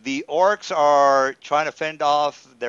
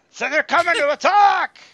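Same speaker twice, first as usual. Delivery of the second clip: dramatic narration; 6 dB louder than usual. Acted.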